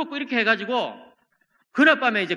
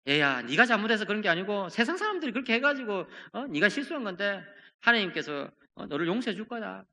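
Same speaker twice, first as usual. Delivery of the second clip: gentle comforting; 5 dB quieter than usual. Pretend. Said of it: "이렇게 하지 않았을까요?".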